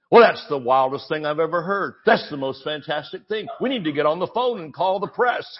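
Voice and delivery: over-the-top fake amazement; mock enthusiasm. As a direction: ham up the praise sarcastically. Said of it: "he's mocking you the whole time".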